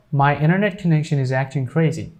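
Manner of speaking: "internet" with the T dropped, like "innernet"; silent T in internet. Shown as a demonstration. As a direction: say "internet" as "innernet", run smoothly. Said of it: "But if we say this".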